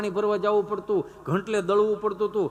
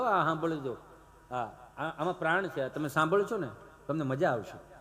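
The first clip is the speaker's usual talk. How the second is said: softer confiding aside; quiet aside; 4 semitones lower, 8 dB quieter than usual. Real, not acted. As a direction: lean in and confide to the crowd. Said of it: "aside to audience".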